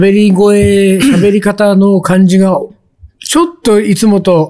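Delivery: talking around a lozenge in mouth; sucking a throat lozenge. Real, not acted. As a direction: speak with a cough drop in mouth. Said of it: "喉飴を舐めながら".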